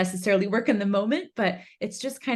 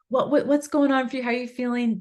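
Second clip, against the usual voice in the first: curious parent; 5 semitones higher than usual. Shown as a demonstration. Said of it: "So you're saying".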